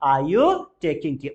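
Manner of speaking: slow and deliberate; slow model question. Shown as a demonstration. Teacher models the English question slowly. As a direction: spell out each word slowly. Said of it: "क्या हो जाएगा?".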